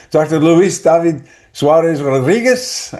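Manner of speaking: put-on name rolled out in a light Mexican accent; a hint of Mexican Spanish on every syllable; attempted Mexican accent. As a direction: try on a Mexican accent for the name, half joking. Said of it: "I tried to do my Mexican accent".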